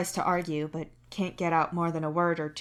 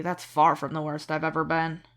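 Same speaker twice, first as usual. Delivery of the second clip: low exhausted rumble; 4 dB louder than usual. A narrator's reading. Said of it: "low and rumbly with exhaustion".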